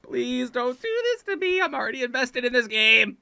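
high, whimpering plea; desperate pleading. Real, not acted. Player begs the game not to fail, desperate plea. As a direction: beg as it slips away. Begging the game after a slip.

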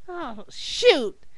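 high, loud mock exasperation; hammed-up disappointed complaint; frustrated. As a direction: whine it high, slowing at the end. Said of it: "frustrated, says".

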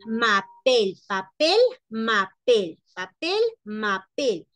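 "m'appelle" said with the Spanish L of "papel". Shown as a demonstration. Teacher compares French to Spanish "papel". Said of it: "Como acá diríamos".

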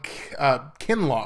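voice cracking. Real, not acted. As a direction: voice cuts out mid-name. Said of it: "I lost my voice there".

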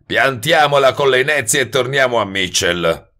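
change the subject with a touch of sparkle; bright tone. A narrator's reading. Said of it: "esclamò Globe in tono brillante". (tono brillante, più acuto)

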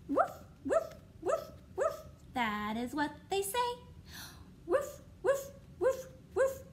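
high, yippy woofs; dog bark. Pretend. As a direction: bark like a little puppy. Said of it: "what sound does a dog make".

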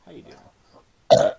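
slow, loud, whispered drawn-out hello; drawn-out greeting. Pretend. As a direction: stretch the greeting out breathily.

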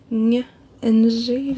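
"Ng" tried out tentatively; unsure pronunciation. Real, not acted. Book vlogger unsure of an author's surname, tentative "Ng". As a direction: attempt "Ng" twice, unsure how to say it. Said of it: "je sais pas comment le prononcer".

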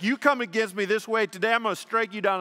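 loud, high threat to the giant; defiant shout. Acted. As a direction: hurl it at Goliath like a challenge. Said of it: "He's like".

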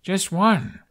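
high, loud offended retort. A narrator's reading. Hiccup answering Kamikaze, loudly offended. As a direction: bristle at the question. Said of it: "sounding offended".

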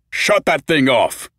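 loud, slow sharp command; urgent shout. Acted. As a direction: bark it out urgently. Peter's sudden urgent outburst.

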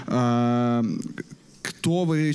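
ordinary talk, nothing marked

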